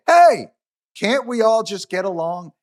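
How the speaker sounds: high, loud "Hey" opening a mock plea; a lightly voiced mock peacemaker plea; comic impression. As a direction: play a comedian begging for harmony. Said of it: "quick impressions".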